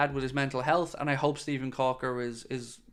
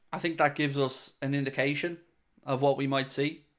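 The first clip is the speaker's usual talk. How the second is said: hiccups. Real, not acted. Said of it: "got the hiccups here".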